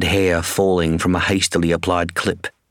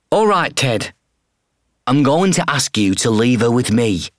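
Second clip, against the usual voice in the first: much higher, gently firm woman's voice; woman vet voice; 5 semitones higher than usual. Acted. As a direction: vet asks the owner to leave the bird. Woman vet's voice.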